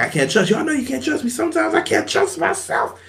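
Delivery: hammed-up soap-opera hush; mock dramatic confession. Dean's line, acted out.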